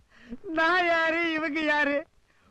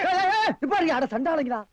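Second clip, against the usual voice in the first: calling out. Acted. Shouting to stop fight.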